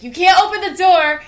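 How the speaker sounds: high, loud mock scream through the door; imitating a scream. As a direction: shriek it like a panicked kid. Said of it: "yell and scream for my dad".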